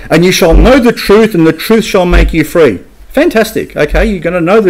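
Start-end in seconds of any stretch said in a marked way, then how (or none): 0.1-2.8 lifted, eager recital of a favourite verse; mock popular quote. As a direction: quote "know" up high, like a slogan people love. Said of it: "a lot of people say".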